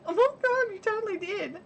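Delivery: exasperated disbelief. Retold or imitated. Mum catching daughter rolling eyes, mock disbelief. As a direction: call out the obvious lie.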